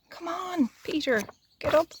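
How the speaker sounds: imploring sparrows. Acted. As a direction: urge him up like an anxious little bird. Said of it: "implored him to exert himself".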